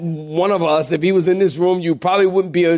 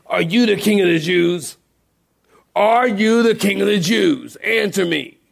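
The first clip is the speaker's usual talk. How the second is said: demanding interrogation; 3 semitones higher than usual. Shown as a demonstration. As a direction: grill him like a judge. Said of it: "The tone here".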